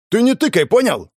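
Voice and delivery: high, loud furious threat; shaking with anger. A narrator's reading. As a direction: spit it out, seething. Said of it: "начало трясти от злости".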